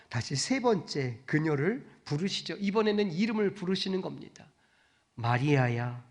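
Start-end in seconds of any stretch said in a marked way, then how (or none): 5.1-6.0 tender call. Acted. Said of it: "이렇게 말씀하시는 거죠".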